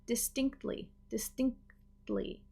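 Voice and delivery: "distinctly" said softly with the T barely there; faded T. Shown as a demonstration. Teacher showing the natural faded T. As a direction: let the T in "distinctly" fade away. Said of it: "that T might start to fade".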